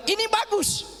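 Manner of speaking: lightly voiced doctor saying it looks fine; doctor's verdict. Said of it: "Dokter bilang".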